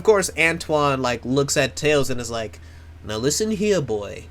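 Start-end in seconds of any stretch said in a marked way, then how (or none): 3.0-4.3 hammed-up fake French accent; terrible French accent. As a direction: do a bad French accent, warning someone off. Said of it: "this is a terrible French accent".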